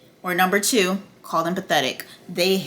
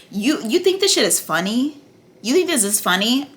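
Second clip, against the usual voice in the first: raised, incredulous challenge; indignant challenge; 4 semitones higher than usual. Acted. Queen confronting her smirking husband, indignant challenge. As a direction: confront them, pitch lifting on the question.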